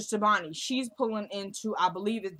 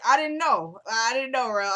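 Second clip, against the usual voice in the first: real astonishment; 3 semitones higher, 6 dB louder than usual. Real, not acted. Reacting to Rel's real story, astonished. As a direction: insist you truly had no idea.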